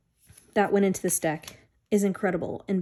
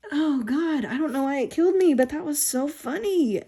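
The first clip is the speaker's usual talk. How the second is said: amused; 8 semitones higher than usual. Real, not acted. Laughing over the funny line.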